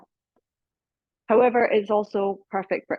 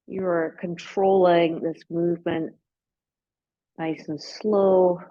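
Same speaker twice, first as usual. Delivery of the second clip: guided meditation. Real, not acted. Guides slow movement, eyes closed.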